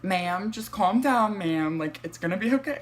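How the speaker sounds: lightly voiced operator talking someone down; calming dispatcher. Dispatcher calming a panicked caller, mildly soothing. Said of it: "The dispatcher's like".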